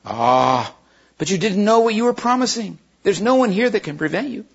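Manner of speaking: put-on a witch luring a boy to break his word; tempting witch. Witch tempts Diggory to steal the apple, coaxing and high.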